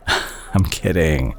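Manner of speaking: easy laugh, then slow reassurance. Acted. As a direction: laugh to undo the joke. Jokes about the hospital bill.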